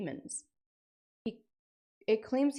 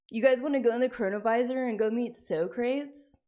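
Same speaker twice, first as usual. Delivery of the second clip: hyped-up invitation; 4 semitones higher, 5 dB louder than usual. Pretend. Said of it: "what's it called?".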